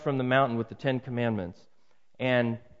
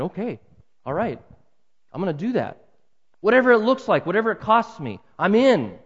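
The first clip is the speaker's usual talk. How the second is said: earnest resolve building; 5 semitones higher, 5 dB louder than usual. Retold or imitated. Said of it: "responding to that and saying".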